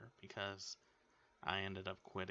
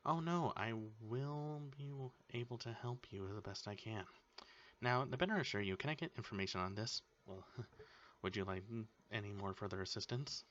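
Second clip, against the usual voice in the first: chirpy customer service voice; bright polished phone greeting; 3 semitones higher than usual. Retold or imitated. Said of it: "certain phrases like".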